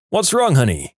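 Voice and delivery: mild shout on waking. A narrator's reading. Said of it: "he woke up and shouted".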